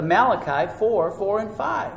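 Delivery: ordinary delivery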